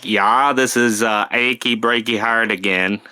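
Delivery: put-on lightly done Minnesotan accent. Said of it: "That's a Minnesotan accent".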